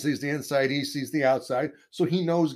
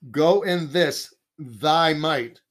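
slow, louder proclamation of God's words; drawn out like a voice from heaven; God's command; 4 dB louder, much slower than usual. Retold or imitated. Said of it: "The Lord says".

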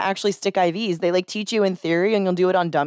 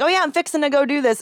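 put-on Texan accent; 8 semitones higher, faster than usual. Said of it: "sound more Texan".

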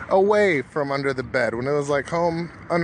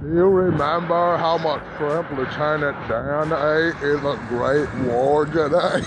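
Forrest Gump voice. Acted. Voicing Forrest Gump to Jenny.

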